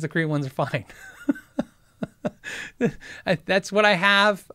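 ordinary delivery

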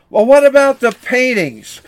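indignant outcry. Acted. Angry buyer protesting to the auctioneer, high and loud. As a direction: demand it in disbelief. Crowd demands the paintings.

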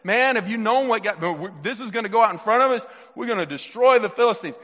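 hyped-up mock war talk; imitated fired-up boasting. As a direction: play soldiers hyped about their secret weapon. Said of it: "they were so fired up".

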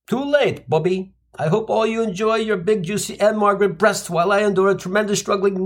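Jewish mother voice. Retold or imitated. Mother guilt-trips son over drumsticks.

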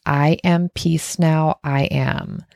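slow, evenly spaced mantra; breathing affirmation. Shown as a demonstration. Coach showing listeners what to think while breathing out, slow affirmation. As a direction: settle slowly into the exhale words. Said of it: "then you breathe out through the mouth".

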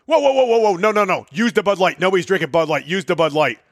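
high-pitched mock yell, easing off toward the end; retold yelling. Bar owner stopping the cook's pour, retold high mock yell. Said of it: "the guy starts yelling at him".

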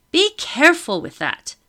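high, sharp lady's warning; haughty lady. Acted. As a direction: snap it like a grand lady. Madame scolds deckhands.

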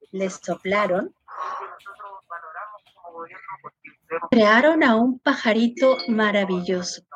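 cuento suave y pausado para niños; cuéntalo despacio, como a un niño; narración de cuento. A narrator's reading. Cuenta el cuento del colibrí. (narradora de cuento, lenta y suave)

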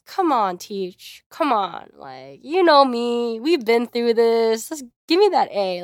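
mock-cajoling with drawn-out, punched words; playfully haggle, stretching the words; wheedling plea. Student imagines haggling grades with teacher, mock wheedling.

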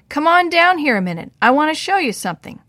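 loud, high call across the barn. Acted. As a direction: call up to a friend on the beam. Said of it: "Harry called".

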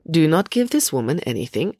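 firm, controlled order. Acted. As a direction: tell him firmly. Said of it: "Ingrid said firmly".

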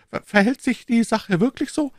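high, stammering shaken question; shaken king. A narrator's reading. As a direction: stumble over the first word, unsettled. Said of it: "sagte der König erschüttert".

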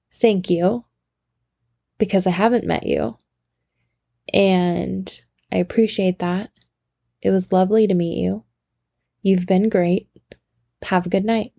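gracious, lightly faked British accent; put-on British accent. Tourist thanking the apologetic regular, put-on British accent. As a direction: thank them with a hint of British. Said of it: "you know, in my accent".

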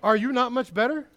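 emphatic rhetorical challenge; emphatic question. Shown as a demonstration. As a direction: press the question home to the listener. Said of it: "I'm talking to you".

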